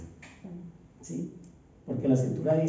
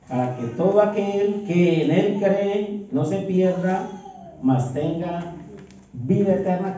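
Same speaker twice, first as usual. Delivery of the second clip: weighty pulpit reading, each word given room; scripture reading; 2 semitones higher, slower than usual. Acted. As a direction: proclaim the verse to the congregation. Continues reading the verse.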